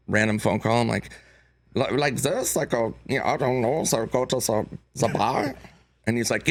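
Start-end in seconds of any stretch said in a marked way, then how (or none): 1.7-5.5 tentative, lightly put-on German accent. Actor auditioning over a random phone call, tentative German accent. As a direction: try out a hesitant German accent. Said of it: "can you do a German accent".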